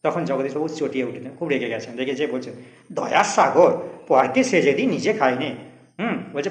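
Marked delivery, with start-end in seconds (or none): 2.9-5.5 angry sarcasm. Acted. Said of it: "চটিয়া উঠিয়া কহিলেন".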